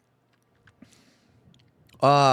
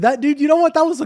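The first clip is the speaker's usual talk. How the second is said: excited; 6 dB louder, faster than usual. Real, not acted. Excited outburst about Con Air.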